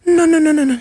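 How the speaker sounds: loud, high urgent protest. Retold or imitated. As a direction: stop him right now. Aunt stopping him eating.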